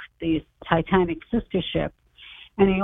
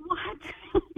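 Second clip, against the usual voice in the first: 1 surprised; 11 semitones higher, 8 dB quieter than usual. Retold or imitated. Her shocked reaction retold.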